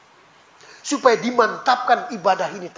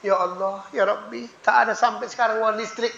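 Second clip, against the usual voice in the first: soft repeated prayer; 5 dB quieter than usual. Retold or imitated. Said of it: "Malam diulangi lagi".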